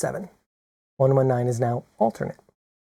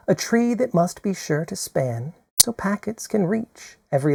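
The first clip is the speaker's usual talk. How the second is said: measured, gentle poetry reading; poem recital. Acted. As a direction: read it like a cherished verse. Recites Radia Perlman's Algorhyme poem.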